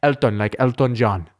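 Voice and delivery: lightly imitated accent, rounded "Elton"; Elton's accent. Host demonstrates the tech guy's exact accent, light imitation. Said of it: "That is exactly to a T his accent".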